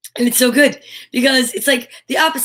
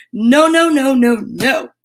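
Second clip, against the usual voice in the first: firm scolding no; 5 dB louder, slower than usual. Acted. Scolding talking mouth full.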